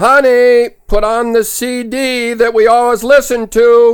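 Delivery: very loud, high call. Retelling a couple's skit, the wife calling a third time: imitating calling with more volume. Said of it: "More volume".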